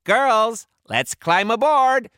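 high, loud woman pirate captain; high-pitched rallying shout; captain's yell. A narrator's reading. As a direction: yell the order to your crew. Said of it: "a woman pirate captain yelled".

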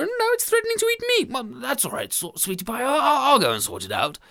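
a fussing wife, half panicked; hint of an anxious housewife; fretful wife. Wife fretting in story.

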